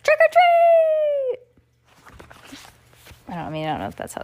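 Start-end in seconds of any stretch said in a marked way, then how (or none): 0.0-1.4 very high, slow, loud call; shouted trick or treat. Acted. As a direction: call it out at the door. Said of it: "raced to the house next door and shouted".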